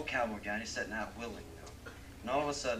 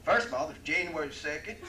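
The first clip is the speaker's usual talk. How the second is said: much higher, louder punchline, cracking up; triumphant cowboy; 12 semitones higher, 11 dB louder than usual. Acted. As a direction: deliver the punchline laughing at his own joke. Cowboy explains punchline, laughing.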